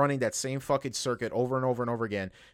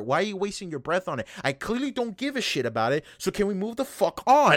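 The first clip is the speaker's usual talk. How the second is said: fed-up rant; 6 semitones higher, 3 dB louder than usual. Retold or imitated. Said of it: "And it's like".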